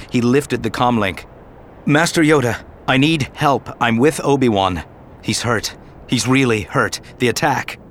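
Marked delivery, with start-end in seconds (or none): 1.9-7.8 urgent plea. Acted. Anakin begs Yoda over comlink, urgent and higher. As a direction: beg for help fast.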